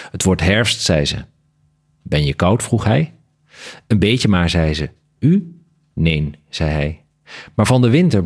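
measured literary read-aloud with lightly voiced dialogue; story narration. A narrator's reading. Author reading a bat story fragment to the interviewer, story narration. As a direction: read the tale aloud with deliberate phrasing.

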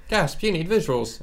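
slow, teasing fake shock; mock gasp.

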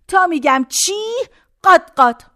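ordinary talk

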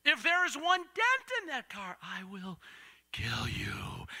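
menacing dad, sinking slowly onto the last words; fiery threat. Acted. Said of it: "he said it with eyes of fire".

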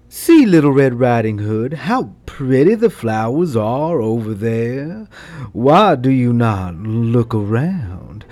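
low, sweet-talking wolf; sly wolf tempting the girl; coaxing wolf. Acted. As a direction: lure her off the path in a low voice.

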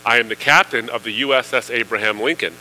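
upset captain. Retold or imitated. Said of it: "the captain is really upset".

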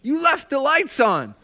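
a retold exasperated jab, drawn out; mock annoyed. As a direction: act out the irritation, half playful. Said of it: "I was mad".

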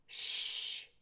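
long, voiceless shushing; drawn-out shh; hushing. A narrator's reading. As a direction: hush someone urgently up close. Threadmaster hushes Despereaux.

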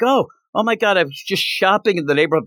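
high, fast excited gush; breathless girly rush of words; mock giddy girl on the phone; gushing schoolgirl. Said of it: "but she's like".

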